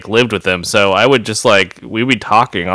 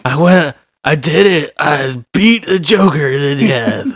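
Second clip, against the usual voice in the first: mock British accent; 5 semitones higher than usual. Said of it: "Kit Harington impersonation territory".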